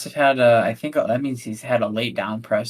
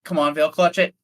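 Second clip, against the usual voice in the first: tense pleading; 6 semitones higher, 6 dB louder than usual. Real, not acted. Commentator urging runner to clutch.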